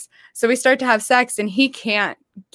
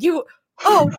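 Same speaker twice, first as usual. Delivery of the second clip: much higher, louder, flustered sorry; flustered apology; 9 semitones higher, 5 dB louder than usual. Retold or imitated. Mom bursting in, then apologizing flustered. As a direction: stammer out an embarrassed apology.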